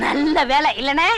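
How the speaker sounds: slow, drawn-out teasing. Acted. Companion to man made to clear glass, teasing. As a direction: needle him with stretched words.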